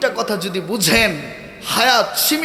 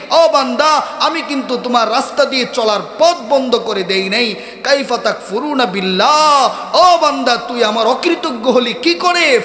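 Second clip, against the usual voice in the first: impassioned preaching; 4 semitones higher, 4 dB louder than usual. Acted. Preacher voices God reproaching His servant, impassioned preaching. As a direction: call out to the servant, then press the reproach.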